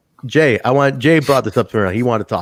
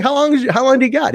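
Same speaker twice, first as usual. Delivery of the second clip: retold eager question; 13 semitones higher, 4 dB louder, faster than usual. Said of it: "I'm like".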